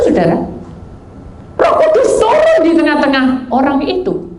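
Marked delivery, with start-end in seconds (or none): 1.6-4.3 high, forceful preaching cry; seruan khotbah. Real, not acted. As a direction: proclaim it loudly, easing down at the end. Preacher proclaims with full force. (berseru lantang seperti pengkhotbah)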